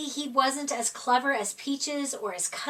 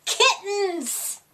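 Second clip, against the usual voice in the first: higher, laughing gasp of dismay; horrified surprise; 6 semitones higher than usual. Acted. Narrator reading Yoda discovering the kittens, laughing dismay. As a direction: burst out in comic horror.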